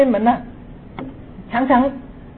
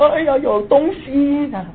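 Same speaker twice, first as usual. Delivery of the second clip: scared cry; 3 semitones higher than usual. Retold or imitated. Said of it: "我就立刻哭了".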